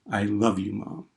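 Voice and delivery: soft farewell. Retold or imitated. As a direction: let the last word die away. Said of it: "last thing that her mother ever heard".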